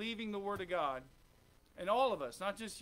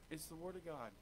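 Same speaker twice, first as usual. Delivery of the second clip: much softer, lower repeat; hushed repeat; 6 semitones lower, 12 dB quieter than usual. Real, not acted. Preacher to congregation, quietly repeating the point. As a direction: let it sink in, almost hushed.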